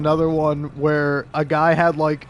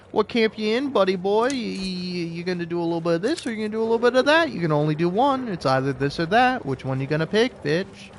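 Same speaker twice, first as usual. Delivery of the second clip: mock taunting; 3 semitones higher than usual. Mock taunting the player's choice.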